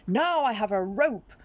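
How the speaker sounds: Chameleon calling to Leopard while tying the rope. Acted. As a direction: call up to Leopard with a bold boast.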